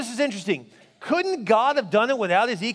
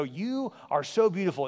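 tender compliment; 4 semitones lower, 5 dB quieter, slower than usual. Retold or imitated. Husband earnestly compliments his wife.

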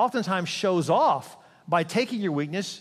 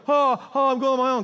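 put-on thrilled kid; 7 semitones higher, 6 dB louder than usual. Kid on bike without wheels.

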